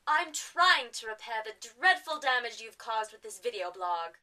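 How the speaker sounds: prim, posh lady scolding; Poshnia. Acted. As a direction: reprove with affected refinement. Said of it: "we've gotten rid of Poshnia".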